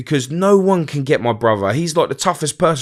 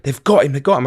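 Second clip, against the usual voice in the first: mildly raised, urgent imitation of a screech; higher, insistent retelling of screeching; retold screeching; 3 semitones higher, 3 dB louder, faster than usual. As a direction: echo a panicked mum's cry, held back. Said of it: "it was screeching, just like".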